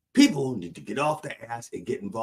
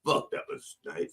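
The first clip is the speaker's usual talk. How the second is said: breathy unvoiced swear, much softer; whispered cuss; 6 semitones lower, 7 dB quieter than usual. Shown as a demonstration. Showing how she really cusses, softly whispered swear. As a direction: hiss the curse under your breath, then relish it. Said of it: "You hear me cussing like this".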